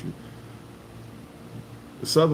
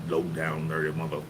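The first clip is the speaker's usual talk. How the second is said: mock whisper; 4 semitones lower, 5 dB quieter than usual. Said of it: "they whisper that".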